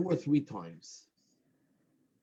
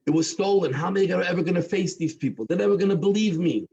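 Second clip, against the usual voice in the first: high-pitched, escalating despair; distraught lament; 6 semitones higher than usual. Retold or imitated. Robbed man laments to the rabbi, distraught. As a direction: pour it out in a rush of acted anguish. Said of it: "And he's crying".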